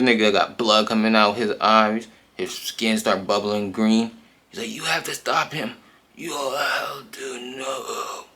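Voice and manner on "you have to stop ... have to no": pleading high, breaking into a loud high scream of NO; plead, then scream as he transforms; panicked scream. Retold or imitated. Man turning into a monster.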